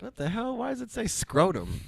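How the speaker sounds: high, startled outburst; shocked exclamation. Retold or imitated. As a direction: act out sudden disbelief. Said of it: "I was like".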